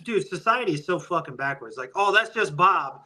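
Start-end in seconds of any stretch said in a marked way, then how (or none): 1.9-3.0 mocking excuse. Mocking people excusing Bob.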